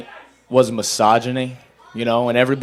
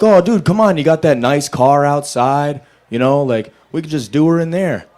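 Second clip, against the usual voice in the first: pleading buddy; 3 semitones higher, 3 dB louder than usual. Retold or imitated.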